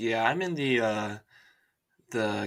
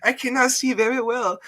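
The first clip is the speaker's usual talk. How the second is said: put-on East Asian accent; 13 semitones higher, 5 dB louder than usual. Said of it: "I sounded kinda Asian there".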